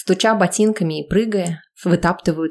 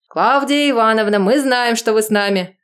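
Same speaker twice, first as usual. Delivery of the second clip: yelled; 4 semitones higher than usual. Acted. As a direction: yell up with a laugh. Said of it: "Орут".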